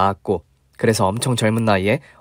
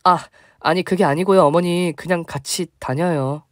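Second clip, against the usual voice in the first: flustered giving in; 6 semitones higher than usual. Retold or imitated. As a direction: cave in to her guilt trip. Narrator backing down to mother-in-law.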